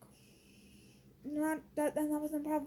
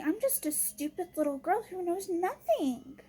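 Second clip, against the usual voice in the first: mock-naive, higher and slower; higher-pitched sarcastic self-mockery; sarcastic echo; 4 semitones higher than usual. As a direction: echo the insult sarcastically, dragging it out. Sarcastically echoing an insult made at her.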